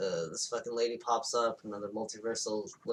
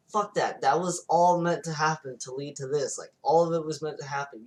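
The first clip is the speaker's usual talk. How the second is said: insistent, slightly raised retold urging; mock pep talk; 3 semitones higher, 5 dB louder than usual. Hero convincing the doubting girl, insistent mock pep talk. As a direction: wave away the doubt emphatically.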